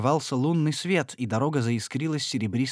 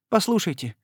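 higher, pleading entreaty; imploring; 7 semitones higher than usual. A narrator's reading. Lady imploring Etienne: pleading. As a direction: implore him to listen. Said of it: "взмолилась она".

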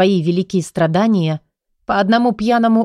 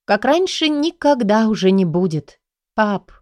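"как раньше" stressed on "раньше" in her own voice, flat and final; understated heartache; bitter retort. Acted. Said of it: "искренне он встревожен".

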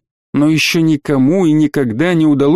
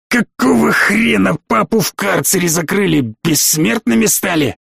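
higher, mildly angry outburst; indignant demand; 4 semitones higher than usual. A narrator's reading. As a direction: demand answers as an outraged father. Enraged colonel demands answers.

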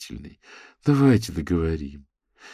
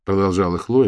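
ordinary delivery

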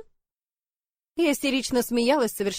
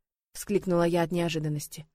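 usual speaking voice

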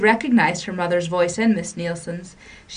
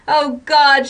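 high, louder ecstatic cry; crying out in joy; 7 semitones higher, 7 dB louder than usual. A narrator's reading. Girl crying out to her mother in joyful triumph. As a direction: burst out in overjoyed wonder. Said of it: "she cried".

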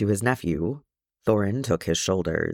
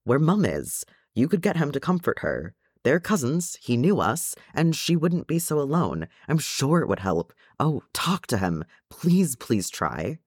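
excited; 6 semitones higher than usual. A narrator's reading. Nephew urges uncle to get help for Mum, excited. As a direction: hurry upward with hope, then stretch the begging. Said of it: "in his excitement".

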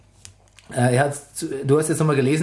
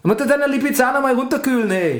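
put-on Austrian accent; 6 semitones higher than usual. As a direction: brag in a thick Austrian accent. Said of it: "Mach Mario Götze mit österreichischem Akzent".

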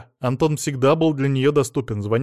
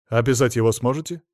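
ordinary delivery, nothing marked

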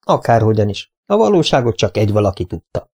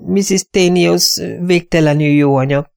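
mild whisper; 7 semitones higher than usual. Acted.

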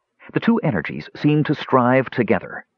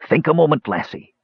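a touch of fatherly warmth; kindly; 7 semitones higher than usual. A narrator's reading. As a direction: coax her kindly to think. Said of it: "said Dugan kindly".

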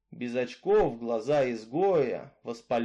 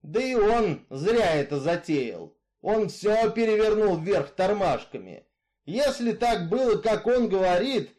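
louder, rising Misfit ranting about Jesus; near growl; 6 semitones higher, 4 dB louder than usual. Acted. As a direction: nearly growl out the creed of cruelty. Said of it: "почти прорычал он". (почти рычание, громко и зло)

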